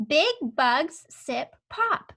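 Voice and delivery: slow, deliberate word-by-word; slow read-along. Shown as a demonstration. Teacher reading along with the pupil, slow and clear. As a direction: read it slowly so the child can follow. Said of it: "this sentence says".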